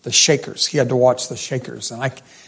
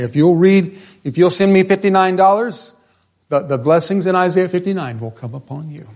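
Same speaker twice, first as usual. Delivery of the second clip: higher, louder mock preacher plea; hammed-up TV preacher; 5 semitones higher, 3 dB louder than usual. Pastor mocking TV preachers promising blessings for cash, hammed-up. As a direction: ham up a televangelist begging for money.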